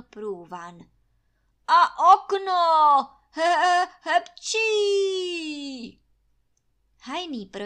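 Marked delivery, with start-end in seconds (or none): 1.7-6.0 very loud slow order breaking into sneezes; yell, then sneeze it out; shout into sneeze. Acted. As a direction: Trautenberg roaring about the window mid-sneeze. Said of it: "komandoval Trautenberg".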